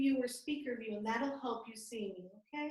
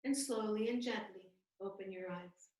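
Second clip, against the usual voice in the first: guided meditation; 3 semitones lower, 3 dB quieter than usual. Real, not acted. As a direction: ease them out gently, with long pauses.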